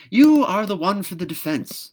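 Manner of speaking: high, loud delighted cry. Acted. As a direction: crow with delight at the find. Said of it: "quite delighted".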